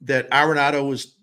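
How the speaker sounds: dry sarcastic tone; deadpan sarcasm. Real, not acted. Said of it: "pardon my sarcasm".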